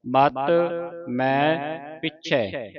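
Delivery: slow ਮਤ, ਮੈਂ ਪਿੱਛੇ, ending on open ai; careful vowel marks. Shown as a demonstration. Teacher points out dulavan to pupil, slow careful ਪਿੱਛੇ. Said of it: "ਦੋ ਦਲਾਵਾਂ ਰੱਖੀਆਂ".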